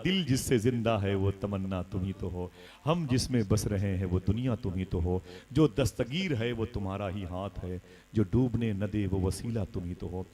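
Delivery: low, measured couplet delivery; devotional verse recitation. Acted. (नातिया शेर की धीमी लयबद्ध अदायगी)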